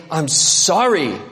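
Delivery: slow, reluctant sorry; grudging sorry. Shown as a demonstration. Preacher showing a grudging apology, slow and reluctant. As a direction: drag the apology out. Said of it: "so you just say".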